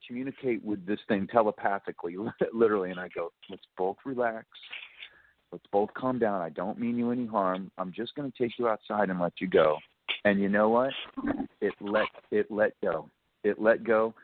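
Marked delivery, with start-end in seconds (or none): 3.5-9.8 soothing zen calm. Retold or imitated. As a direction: soothe the animal, hushed and steady. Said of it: "I start to zen out".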